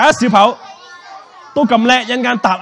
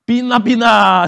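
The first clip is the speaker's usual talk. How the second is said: called-out magic spell; 4 semitones higher, 5 dB louder, slower than usual. Real, not acted. Repeats a child's magic spell.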